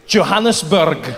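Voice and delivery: put-on slow laughing Scottish-accented answer; bad Scottish accent, giggling. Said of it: "learn the Scottish accent".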